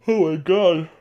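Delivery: high yawn-stretched exclamation. Real, not acted. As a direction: exclaim through a big yawn. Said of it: "I'm so sorry".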